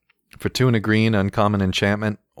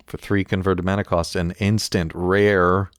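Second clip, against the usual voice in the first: race announcer voice. Pretend. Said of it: "my, uh, radio race announcer voice".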